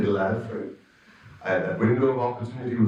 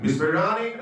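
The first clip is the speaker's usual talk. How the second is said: bad Norwegian accent; 5 semitones higher than usual. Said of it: "I'm doing a really bad Norwegian accent".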